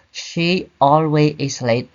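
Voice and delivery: slow deliberate wrong example; wrong sentence. Shown as a demonstration. Teacher warning students off the wrong order, slow and deliberate. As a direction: lay out each word of the mistake slowly. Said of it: "We don't say".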